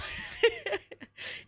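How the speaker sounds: high breathy laughter. Real, not acted. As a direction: break into laughter. Laughing after quote.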